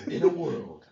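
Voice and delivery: loud trailer announcer; movie guy voice. Acted. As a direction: deliver it like a movie trailer opening. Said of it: "come with the movie guy voice".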